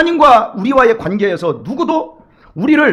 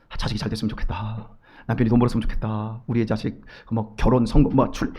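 much lower, much softer murmur; inner wishes; 13 semitones lower, 11 dB quieter than usual. Retold or imitated. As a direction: mumble it as a private thought. Congregation's inner wishes voiced. (훨씬 낮고 작게 혼잣말하듯)

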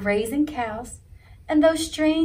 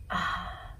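wistful sigh; 8 dB quieter than usual. A narrator's reading. Fish's longing sigh.

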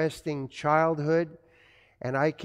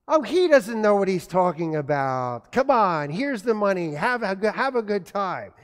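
a bit louder and higher, brushing dad off; breezy mom; 4 semitones higher, 4 dB louder than usual. Retold or imitated. Mom slips son money behind dad's back, breezy. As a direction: wave away dad's rule cheerfully. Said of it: "mom overruling dad".

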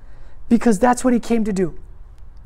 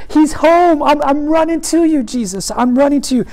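eager prayer; 4 semitones higher, 4 dB louder than usual. Shown as a demonstration. Believer runs to Jesus.

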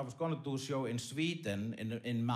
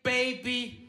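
mock porn moaning; 4 semitones lower, 5 dB louder, slower than usual. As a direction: overact a cheesy porn actor, swinging from low growls to falsetto babies. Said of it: "when they go like".

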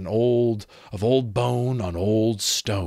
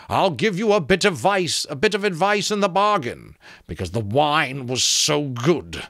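high, loud skull character; animated high skull voice; talking skull; 8 semitones higher, 5 dB louder than usual. A narrator's reading. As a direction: play a lively skull, pitched up.

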